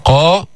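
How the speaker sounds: قا at its thickest, with a long dark a; full, back-of-mouth قا; fully heavy qaf. Shown as a demonstration. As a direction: say قا with maximum heaviness. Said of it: "مفخمة بأعلى مراتب التفخيم".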